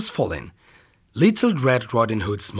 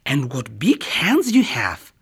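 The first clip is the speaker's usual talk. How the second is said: hushed exclaim. Acted. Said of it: "exclaimed Little Red Riding Hood".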